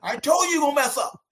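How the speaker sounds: high, quick taunt; I-told-you-so. Retold or imitated. Taunting scout, retold.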